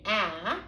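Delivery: short "a" as in cat. Shown as a demonstration. Teacher showing the short "a" to first graders. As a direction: say "a" with the short vowel sound. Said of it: "we try the short vowel sound".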